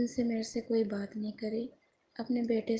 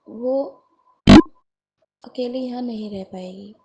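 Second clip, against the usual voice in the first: louder, insistent pleading in defence of her daughter; raised, protesting voice; 10 dB louder than usual. Retold or imitated. Mother defending her daughter to sister-in-law, raised and insistent. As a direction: push each reason out firmly and loud.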